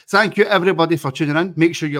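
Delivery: playful mock French sign-off; mock French accent. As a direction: sign off in a jokey fake French voice. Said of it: "that's my best French accent".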